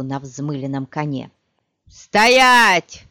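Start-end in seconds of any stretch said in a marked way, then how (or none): 1.9-3.0 loud high shouted halt. A narrator's reading. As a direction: yell it across the square. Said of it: "крикнул наездник".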